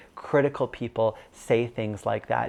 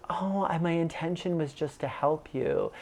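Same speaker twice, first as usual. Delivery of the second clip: higher, softer mom voice, lightly done; imitated mother; 4 semitones higher, 5 dB quieter than usual. Mom answering her son's complaint, mild imitated justifying. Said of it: "Then she goes".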